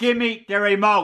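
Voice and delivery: angry voice. Arguing with another person over a spare tv remote; angry demand. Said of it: "Calm down".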